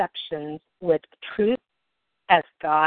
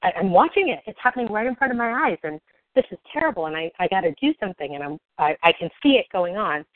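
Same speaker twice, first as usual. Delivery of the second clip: mock agitation; faster than usual. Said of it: "I'm getting so angry at them".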